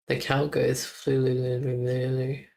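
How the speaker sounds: "flululululu" as a tongue-rolling nonsense moo; silly cow noise. Shown as a demonstration. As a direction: goof on the cow sound with a trill. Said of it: "Not moo".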